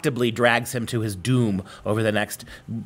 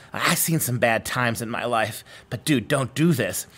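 slow, lightly voiced weary demon; a hint of a tired devil, slowed down; world-weary demon. Devil warning Faustus off the contract, slow and lightly weary. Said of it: "this jaded, world-weary demon says to him".

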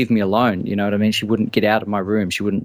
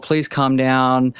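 slow, drawn-out mock pleading; coaxing retold plea; puppy-dog pleading; much slower than usual. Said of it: "did the whole puppy dog".

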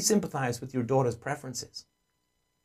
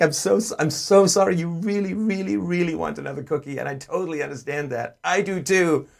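warm sympathy; 5 semitones higher, 3 dB louder than usual. Shown as a demonstration. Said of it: "You know, like".

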